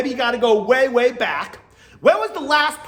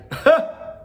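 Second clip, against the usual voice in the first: imitated laugh; 9 semitones higher, 4 dB louder than usual. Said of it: "he's like".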